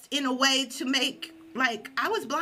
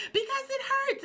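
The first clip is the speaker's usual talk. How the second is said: pained wail; 14 semitones higher than usual. Retold or imitated. In pain on the nails.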